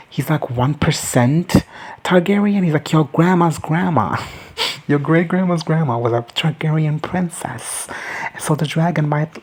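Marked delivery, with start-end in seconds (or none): 2.9-9.4 lightly acted, slow higher-pitched claim of lineage; retold boast. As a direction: draw it out slowly, mimicking a hopeful claimant. Acts out man pitching his royal descent.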